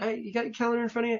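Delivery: very high, sweet, friendly, nice tone. Showing how to ask someone about their calendar, in a really nice tone. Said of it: "you got to say it with a really nice tone of voice".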